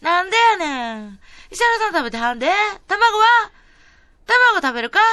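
hammed-up mother pressing food; imitating mum. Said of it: "お母さんのモノマネは似てるんやけど".

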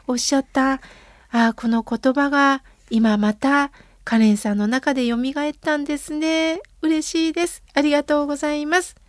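normal talking voice

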